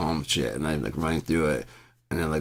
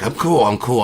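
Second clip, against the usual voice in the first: mock calm; 5 semitones higher, 7 dB louder than usual. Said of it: "Every time I'm like".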